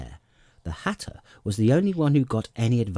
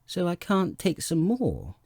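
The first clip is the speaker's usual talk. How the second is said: offended; 10 semitones higher than usual. A narrator's reading. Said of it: "in an offended tone".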